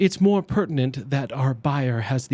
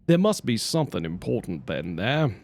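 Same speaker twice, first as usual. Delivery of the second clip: put-on lightly British-accented line, a little lower; British-tinged character voice; 3 semitones lower than usual. Streamer hunting for a character's voice, British-tinged accent. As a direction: slip into a British accent, unhurried. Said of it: "I can't get to his voice. Where is his voice?".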